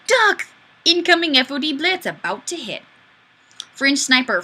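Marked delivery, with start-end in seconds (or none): 0.1-2.8 mock alarm. Reading a comment as an alarm.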